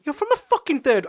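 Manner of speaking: high, loud swearing blast; retold shouting. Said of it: "I started swearing and everything".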